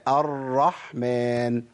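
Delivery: الرحمن slow, the r held with a light tremor; correct gentle r. Shown as a demonstration. Teacher showing students the right way, gently held r in الرحمن. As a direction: recite الرحمن slowly, r not over-rolled. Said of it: "لا أعمل تكرير مبالغ فيه".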